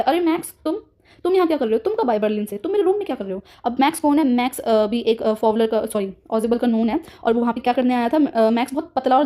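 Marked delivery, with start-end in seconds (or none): 0.0-3.4 higher, lightly acted surprise at the intruder; a calm agent's feigned cheerful surprise; mock surprised greeting. Teacher voicing Ozible greeting intruder Max, mock surprise. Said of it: "ये तो बल्कि बोलता है".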